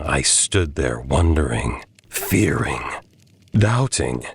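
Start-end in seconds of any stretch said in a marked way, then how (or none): 2.1-2.8 breathy fearful whisper. A narrator's reading. Narrator in the dark, a fearful whisper. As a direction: hush it to a whisper.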